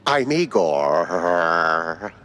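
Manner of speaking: "Igor" drawn out very slowly; slow name. Shown as a demonstration. Caretaker introducing himself, slow and deliberate. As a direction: introduce yourself as "Igor", unhurried. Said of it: "Not Igor?".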